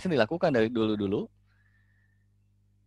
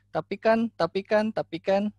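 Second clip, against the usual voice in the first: much higher, louder nagging "tapi kan"; high pleading child repeating "but"; whining child; 10 semitones higher, 3 dB louder than usual. Retold or imitated. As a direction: nag like a kid who won't accept the answer. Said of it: "tapi selalu misalnya".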